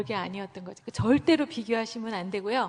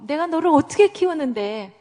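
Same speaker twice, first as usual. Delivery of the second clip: higher and louder exasperated parent; angry parent; 5 semitones higher, 6 dB louder than usual. Retold or imitated. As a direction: demand it like a hurt parent. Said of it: "부모들은 화가 나는". (화난 부모의 외침)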